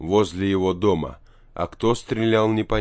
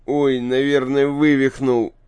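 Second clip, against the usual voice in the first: pained cry; 5 semitones higher, 4 dB louder than usual. A narrator's reading. Boy falls on injured leg.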